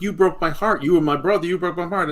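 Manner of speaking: Sam. Retold or imitated. Fan re-enacting a promo to his brother, mock heartbroken. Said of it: "Sam is like".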